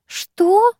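high, startled what; as if just woken from sleep; bewildered. Acted. Sister jolted out of her trance, bewildered high what. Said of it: "спросила она растерянно".

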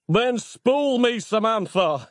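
high-pitched, drawn-out yell. A narrator's reading. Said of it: "yelled Nick".

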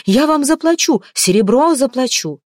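high, loud pleading; desperate offer. A narrator's reading. Mamalai begs the spearmen, offering silver, high and loud. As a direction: shout the offer to save yourself. Bargaining for his life.

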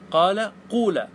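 قال, then قول with a long "oo"; damma variant. Shown as a demonstration. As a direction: say قال قول as "qaala, qoola". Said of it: "قال ثلاث لغات".

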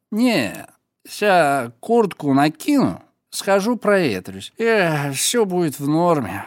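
loose slurry tipsy talk; drunk voice. Pretend. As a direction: brush him off like a drunk. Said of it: "продолжая изображать выпившего".

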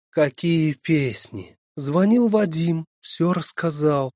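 high, loud indignant scolding; indignant mother. Acted. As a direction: scold the daughter, outraged. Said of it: "негодовала мать". (возмущённая мать)

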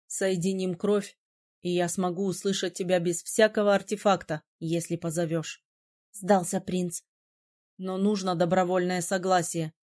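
a hint of a surprised young man; lightly voiced prince. A narrator's reading.

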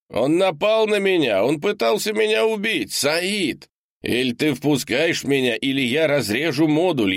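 freezing man outside begging to be let in; desperate shouting man. A narrator's reading. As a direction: pound on the door with your voice. Leonardo threatening through the door.

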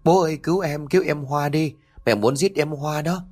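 cling and beg through tears; crying plea. Acted. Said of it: "ôm lấy chân của anh mà khóc".

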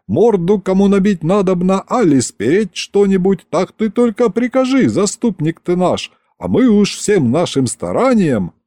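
high-pitched, servile imp voice; eager demon henchmen. A narrator's reading. Demons offer the tsar their dirty services, eager and high-pitched.

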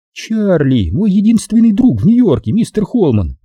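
high-pitched woman, gently introducing a friend; gentle, lilting high female voice; soft. A narrator's reading. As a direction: voice her high and sweet. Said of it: "мягко сказала она".

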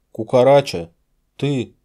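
loud astonished recognition; can't believe it's him; surprised. A narrator's reading. Surprised to see friend alive. (изумлённо и громко)

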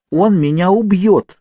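high, loud, slow cry of fear; frightened cry. A narrator's reading. Kate crying out to Naomi in fear. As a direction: cry out that he'll kill you.

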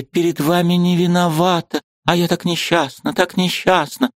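высокий женский голос, полный жалости к себе; плачься о своём несчастье; жалобное восклицание. A narrator's reading. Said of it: "воскликнула госпожа Лаврецкая". (высоко и жалобно, на грани слёз)

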